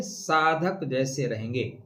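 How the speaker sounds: drawn-out, word-by-word answer; slow right down to drive the phrase home; slow emphatic repeat. Real, not acted. Repeats answer to own question.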